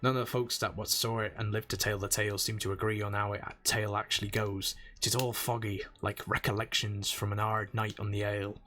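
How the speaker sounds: gruff old sailor brogue, lightly put on; a dock-boss accent, lilting; pirate accent. Old sailor welcoming a newcomer, lightly accented. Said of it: "How terrible is my accent?".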